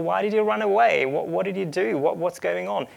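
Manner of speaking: mock an accusing interrogation; condemning questioning. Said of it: "those condemning questions".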